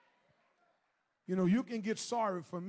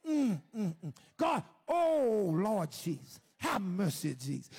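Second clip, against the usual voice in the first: wordless groans breaking into "Lord Jesus"; moaning, crying prayer; slower than usual. Retold or imitated. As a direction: moan out a plea for mercy. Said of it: "Just, just that moan, that cry".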